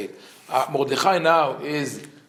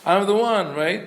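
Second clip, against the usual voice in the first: smug boast; 5 semitones higher than usual. Retold or imitated. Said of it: "He's like".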